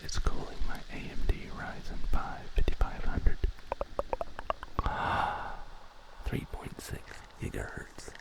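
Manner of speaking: hushed, breathy whisper with lingering pauses; ASMR whisper. Pretend.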